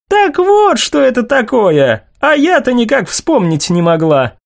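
put-on high, excited girlish outburst; sudden bright realization, pitched high; excited exclamation. A narrator's reading.

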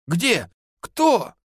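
high startled shriek. A narrator's reading. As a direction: shriek it out in alarm. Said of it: "завизжал Прокоп".

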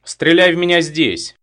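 high, loud reckless challenge; reckless dare. A narrator's reading. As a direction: dare him to shoot, recklessly. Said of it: "бесшабашно тряхнула головой". (отчаянный громкий вызов)

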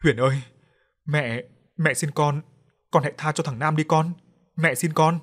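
a mother weeping as she pleads; sobbing mother begs her ghost daughter to spare Nam; tearful mother pleading. Acted. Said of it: "bưng lấy mặt mà khóc".

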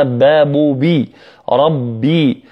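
"ربي" with a held, voiced double "b"; doubled firm ba. Shown as a demonstration. Teacher corrects the sound, strong doubled b in "ربي". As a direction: press firmly on the b of "ربي". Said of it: "ولا بد من تشديدها".

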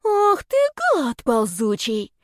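drawn-out venomous insult, starting high; hissed insult. A narrator's reading. Girl insults the serpent friend, venomous hiss. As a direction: hiss the curse with spite. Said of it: "прошипела мамия".

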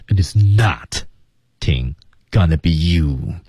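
"It is not" 后停顿，再慢慢说 "gonna be you"; deliberate pauses. Shown as a demonstration. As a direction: pause clearly before "gonna be you", slow. (在 "It is not" 和 "gonna be you" 之间停顿)

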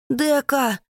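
loud, high anguished call; roaring name. Acted. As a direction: roar her name as he charges. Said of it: "рычит он".

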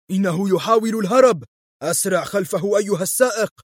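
villain yells as the car escapes; shouting. Acted. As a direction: yell the alarm at the driver. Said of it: "فصرخ فولف".

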